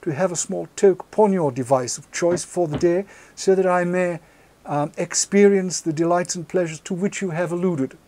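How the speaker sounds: mock posh translation. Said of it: "roughly translated".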